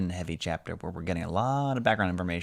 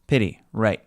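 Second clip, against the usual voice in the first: grim; 2 semitones higher, 6 dB louder than usual. A narrator's reading. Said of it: "Rachel said grimly".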